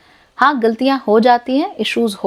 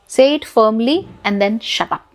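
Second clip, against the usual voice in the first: each word drawn out and set down hard; slow, deliberate instruction to say it firmly; much slower than usual. Shown as a demonstration. Coach stressing firmness to a hurt listener, slow and deliberate.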